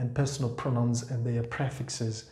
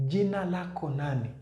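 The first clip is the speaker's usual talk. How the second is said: quick Swahili demo; 4 semitones higher, faster than usual. Shown as a demonstration. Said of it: "That's the first way".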